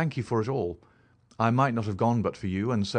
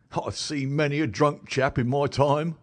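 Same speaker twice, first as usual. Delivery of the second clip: higher, louder common London constable; a plain-spoken beat policeman telling his tale, pitched up; constable Rance; 6 semitones higher, 4 dB louder than usual. Acted. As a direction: policeman recounting what he found, higher and louder. Rance grinning.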